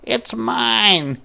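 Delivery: put-on a girl yelling her claim; high insistent girl; yelling Ruthie. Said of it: "she yelled".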